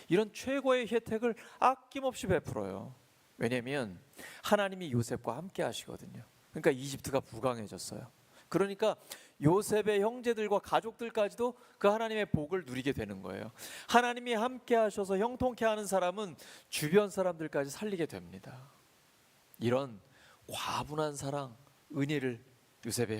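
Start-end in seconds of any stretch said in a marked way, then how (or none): 0.1-2.9 high, loud pulpit proclamation; sermon climax delivered full force; fervent preaching. Acted. Pastor preaching with fervor. 8.5-18.7 high, loud pulpit proclamation; sermon climax delivered full force; fervent preaching. Acted. Pastor preaching with fervor.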